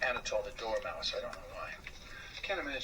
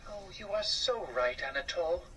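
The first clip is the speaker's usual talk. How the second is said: sad wife; 5 semitones higher than usual. Acted. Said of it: "she said sadly".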